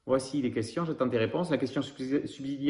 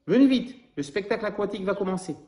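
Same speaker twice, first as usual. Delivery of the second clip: higher, eager hurry-up; calling parent; 6 semitones higher than usual. Acted. A parent hurries the children to the show, in an eager higher voice. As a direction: call the kids over with excitement.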